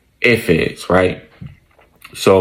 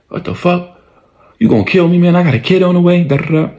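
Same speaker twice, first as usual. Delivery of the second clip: high, frantic plea for his life; panicked pleading; 8 semitones higher than usual. Retold or imitated. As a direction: beg like a man about to be killed, voice jumped high. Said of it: "So he's like".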